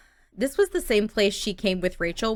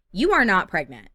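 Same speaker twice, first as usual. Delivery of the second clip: louder, pitch jumping then falling; startled disbelief; 5 dB louder than usual. Real, not acted. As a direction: blurt it out in shock. Startled reaction to game event.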